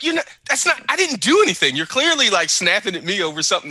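high, loud indignation; mock indignant protest. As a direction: protest your innocence. Voicing Alex protesting.

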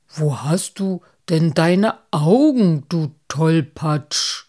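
loud, drawn-out reprimand; loud, exasperated telling-off; stern scolding. A narrator's reading. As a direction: scold the clumsy friend, leaning on each word. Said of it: "Die Stimme Moosbarts wurde jetzt streng".

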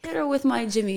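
soft, mock British accent. Shown as a demonstration. Doing it on the host's request, British accent. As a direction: try a British accent, quietly. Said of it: "say it in a British accent".

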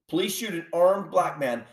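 "armed" stressed firmly within the phrase. Real, not acted. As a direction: restate it, leaning on "armed". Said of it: "I said armed".

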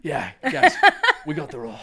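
breathy, airy audition voice; too much breath, overdone. Retold or imitated. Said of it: "I'm always out of breath in my auditions".

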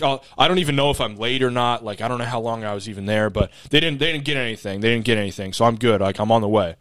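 imitating a fast-talking driver; rapid-fire talk. Delivery driver assures customer he is coming, rapid-fire. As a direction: run the phrases together, repeating in a rush. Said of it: "He's talking this fast".

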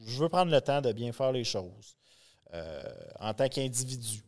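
muffled behind a Batman mask; through a face mask. Real, not acted. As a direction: speak through a costume mask. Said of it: "ça fait spécial de parler avec le masque". (voix étouffée par le masque)

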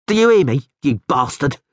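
loud, high jeering shout; taunting yell. Acted. Drunk thug taunts the Rivian, sneering yell. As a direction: bait the stranger with a sneering yell.

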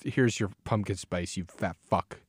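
rude mock taunt. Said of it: "it's just all".

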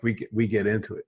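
leaning into a Philly accent. Shown as a demonstration. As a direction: say it like a Philadelphia fan. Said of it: "I'm going into my Philly accent right now".

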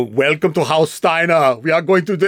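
put-on German accent. Game character welcoming players to House Steiner, German accent. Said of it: "can you do a German accent".

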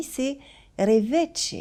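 "Reveche" spelled out slowly as re-VESH, French style; slow, deliberate "Reveche" checking the name; host carefully sounds out "Reveche" the French way; careful name pronunciation. Shown as a demonstration. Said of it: "ton nom de famille".

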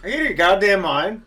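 loud, high, incredulous outburst; outraged disbelief. Real, not acted. Outraged at the tiger answer.

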